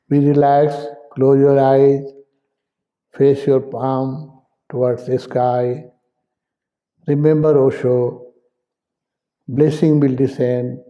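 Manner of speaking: unhurried meditation guide, pausing between phrases; spaced-out, measured breathing instructions; guided meditation. Real, not acted. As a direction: lead them gently into breathing, leaving space after each instruction.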